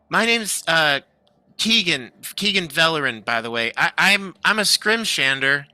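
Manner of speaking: flustered halfling Keegan. Acted. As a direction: trip over the words, tired and nervous. Keegan introduces himself.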